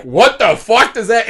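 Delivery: high, stunned what-the; confused child blurting it out; loud baffled outburst; baffled kid. Retold or imitated. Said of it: "And I was like".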